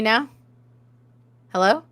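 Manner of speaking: glitching, garbled mic audio; distorted voice. Real, not acted. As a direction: voice breaking up over the call. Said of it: "Your voice is, is distorted".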